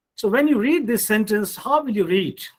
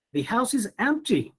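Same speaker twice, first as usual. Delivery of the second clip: higher, unfinished tune ending on "empty"; rising tone, incomplete; 5 semitones higher than usual. Shown as a demonstration. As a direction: lift "empty" as if more follows. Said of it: "in incomplete utterances".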